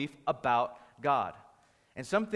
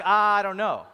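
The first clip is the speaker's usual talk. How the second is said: loud, higher, exaggerated dithering; wishy-washy; 5 semitones higher, 11 dB louder, slower than usual. Husband imitating his wife's reaction on stage, mock wishy-washy. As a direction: play up not knowing, loudly. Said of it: "That's, that's wishy-washy".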